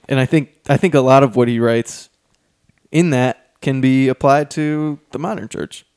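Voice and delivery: breathless from talking so much; out of breath. Real, not acted. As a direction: talk while out of breath. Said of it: "Sorry, I'm out of breath".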